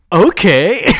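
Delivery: high, loud rising okay; meekly agreeing Clark. Retold or imitated. Clark obeying Simone, mock high-pitched agreement. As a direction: pitch it up as a mocking imitation. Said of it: "And he's like".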